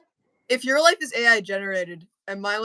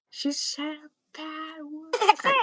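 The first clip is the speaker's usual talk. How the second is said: mock childish voice; 7 semitones higher, 5 dB quieter, slower than usual. Mocking the teasing.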